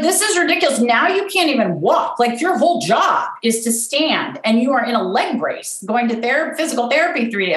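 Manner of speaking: lightly acted parental exasperation; exasperated dad. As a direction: retell dad's telling-off, pitch jumping up. Retelling dad's exasperated scolding.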